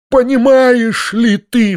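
high, loud, slow desperate outcry; desperate cry. A narrator's reading. Uncle to his nephew in despair, high slow cry. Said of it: "вскричал он в отчаянии".

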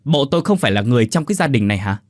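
fast, irritated retort; husband snapping at his wife. Acted. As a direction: bark it back, offended. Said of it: "Ông Quý gắt lên".

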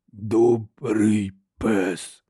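very slow, low, cracked lumbering giant; slow rasping monster voice; harsh cracked giant voice. A narrator's reading. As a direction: drag out each word like a simple-minded brute. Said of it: "вимовив він різким, надтріснутим голосом".

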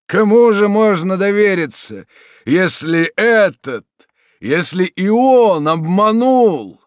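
betrayed father's anguish; outraged despair; bitter indignation. Acted. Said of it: "жестом горестного негодования".

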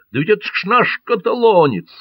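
Van Stiller recognizes their Catalan friend; excited recognition. A narrator's reading. Ван Штиллер радостно узнаёт товарища. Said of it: "воскликнул Ван Штиллер".

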